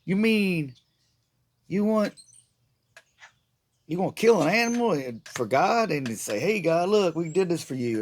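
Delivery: comic disbelief at animal sacrifice; incredulous disbelief. Retold or imitated. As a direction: play it like you can't believe the idea. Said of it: "I was like".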